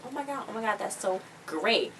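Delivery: high, soft imitation of gushing; mock delight. He hears about the cover art job, mock gushing. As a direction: gush softly, drawing out the end. Retold delighted reply to an offer.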